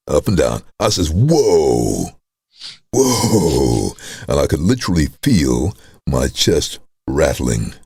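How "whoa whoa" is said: voice going up and down. Retold or imitated. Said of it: "my voice was going up and down".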